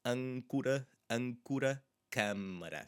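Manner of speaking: "âncora" with a closed nasal "â". Shown as a demonstration. Teacher modelling "âncora" for students, closed nasal vowel. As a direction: say "âncora" as "ânkura", nasal first syllable. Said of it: "So âncora is an anchor".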